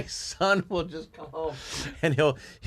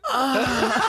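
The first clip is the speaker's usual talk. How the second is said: high moan with laughter behind it; mock sexual moan; 11 semitones higher, 3 dB louder than usual. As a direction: imitate a friend's joke moan. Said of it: "You moan, like, sexually".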